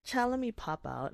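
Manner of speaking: high, bright exclamation; mock excited cry to herself; excited exclaim. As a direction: blurt it out excitedly.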